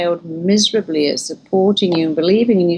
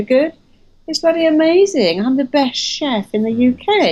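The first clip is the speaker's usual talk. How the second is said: proud chef boasting; 7 semitones higher than usual. Retold or imitated. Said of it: "You go".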